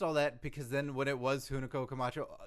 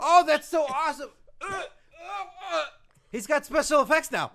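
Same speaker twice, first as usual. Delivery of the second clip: high, loud, laughing excitement; delighted amazement; 13 semitones higher, 10 dB louder than usual. Acted. Co-host watching the smoke bomb escape, delighted amazement. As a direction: marvel loudly with a laugh.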